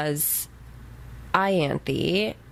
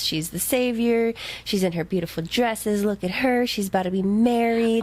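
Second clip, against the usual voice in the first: lightly mocking, higher show of delight; mock cheerful gushing; 4 semitones higher than usual. Co-host parodies the message to the land, mock cheerful gushing. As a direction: gush with a touch of fake cheer.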